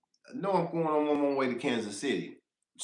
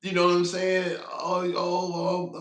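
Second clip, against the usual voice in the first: mock spooked; 5 semitones higher, 5 dB louder, much slower than usual. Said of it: "I'm not finna tell you".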